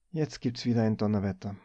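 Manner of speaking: ordinary delivery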